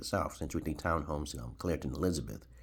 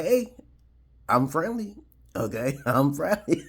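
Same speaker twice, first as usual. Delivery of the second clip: high, loud pleading with a laugh; mock scared plea; 9 semitones higher, 6 dB louder, slower than usual. Hands up before the gunmen, high mock-frightened plea. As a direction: beg them not to shoot, half-joking.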